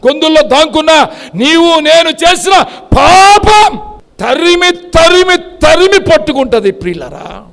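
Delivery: fiery sermon warning; preaching shout. Real, not acted.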